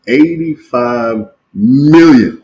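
slow, drawn-out Trump voice; mock Trump boasting about money; Donald Trump impression. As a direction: stretch it out like Trump. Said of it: "I'm gonna do Donald Trump real quick".

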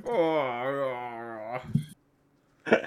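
quiet, weak groaning orc; a hint of a smoking orc corpse; charred dying orc. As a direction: wheeze it out like a burnt grunt. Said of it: "He's like".

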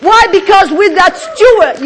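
loud, high excited preaching; hyped up, pushing hard from the pulpit; too much caffeine. Real, not acted. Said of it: "you get me excited".

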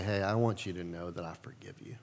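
soft unvoiced whisper; whispered forgiveness. Pastor calling someone who hurt him, whispered gently. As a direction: breathe the words gently.

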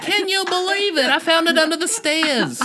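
put-on high old woman voice with a thick Yiddish accent; old Jewish woman voice. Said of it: "old people voices ... thick accent Jewish".

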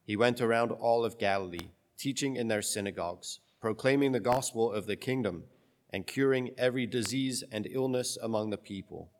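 solemn, measured scripture reading; gospel reading. Acted.

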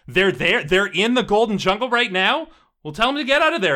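alarmed, high-pitched voice from the background; Savitri. Acted. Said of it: "you hear in the background the voice of, uh, of Savitri".

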